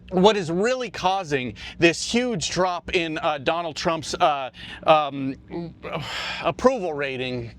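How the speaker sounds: panting between words, winded; breathless, gasping after jumping around; out of breath. Real, not acted. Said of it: "I'm out of breath".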